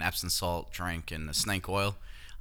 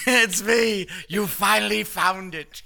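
high, slow giggling reveal; laughing; 12 semitones higher, 7 dB louder, slower than usual. Retold or imitated. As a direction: giggle it like a schoolgirl.

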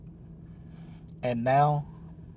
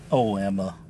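gently; 3 semitones lower, 4 dB louder than usual. A narrator's reading. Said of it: "Dad said gently".

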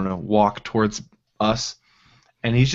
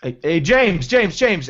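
high, urgent repeated call; calling after someone; 7 semitones higher, 4 dB louder, slower than usual. Acted. Character runs after wandering boy, calling out. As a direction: call the name after him.

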